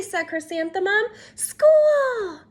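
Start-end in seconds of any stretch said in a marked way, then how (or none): 1.3-2.4 high, loud joyful cry; excited shout. Acted. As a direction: burst out with glee. Child excited about first day.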